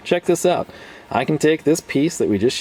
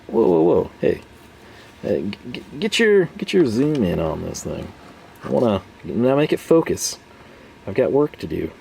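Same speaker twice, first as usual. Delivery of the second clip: mock-frustrated viewer, higher and pushy; 3 semitones higher than usual. Impatient viewer urging the cameraman to zoom, mock frustrated. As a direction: play an impatient viewer hurrying the camera along. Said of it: "You're getting very frustrated".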